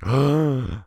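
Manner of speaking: exaggerated high gasp of shock; mock anime gasp. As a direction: gasp like a dumbfounded anime character.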